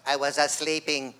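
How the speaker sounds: a hint of a half-awake teen; sleepy kid. Late kid's excuse.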